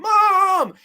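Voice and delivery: high, loud cry of Mom; the boy yelling for his mother; retold scream. Retelling the boy's scream at his mother's death, loud. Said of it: "Eddie Furlong scream".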